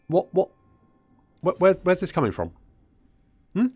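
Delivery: sputtering what, where's this from; high, stunned outrage; indignant disbelief. Real, not acted. Confronting the ally's sudden attack.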